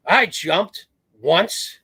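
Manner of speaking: lightly voiced old veteran, drawn out slowly. Frail old veteran tells the marine about his jump, slow and high.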